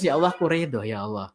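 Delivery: mock crying but yielding to God; accepting tearful prayer. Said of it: "Tapi kalau nangis".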